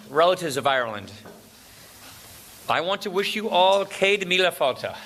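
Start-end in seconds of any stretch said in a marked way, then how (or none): 2.7-4.9 Céad Míle Fáilte said with care, as a proud try at Irish; careful Irish greeting. Real, not acted. A speaker to an Irish guest, trying the Irish greeting carefully. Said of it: "How was that?".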